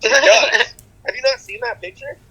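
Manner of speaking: high, eager insistence; insisting the photo is real; excited. Real, not acted. Telling friends about the photo, high excited insistence.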